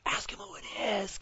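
voiceless whisper. Retold or imitated. Peter whispering to John at the table, secretive whisper. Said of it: "'cause Peter's like".

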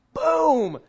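high, loud imitated boom; sudden loud boom of the fall; crash sound. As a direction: blurt out the crash noise. IPad crashing off the car.

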